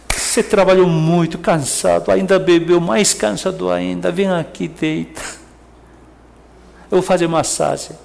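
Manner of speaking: lightly voiced gentle wife, tender and soothing; caring wife. Wife welcoming tired drunk husband, a touch tender. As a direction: coax him kindly to lie down. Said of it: "você fala assim".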